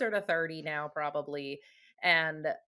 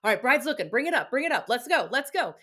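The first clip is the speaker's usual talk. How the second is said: louder, higher hype coach; halftime pep speech; 5 semitones higher, 7 dB louder than usual. Retold or imitated. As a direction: pump them up like a coach. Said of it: "getting people up and moving".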